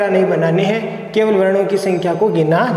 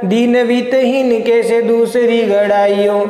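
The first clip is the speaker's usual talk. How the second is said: slow, metrical chant-like recital; verse recitation; 4 semitones higher, slower than usual. Shown as a demonstration. Teacher giving students a kavitt example, measured verse recitation. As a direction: recite it in steady measured beats, drawing out syllables.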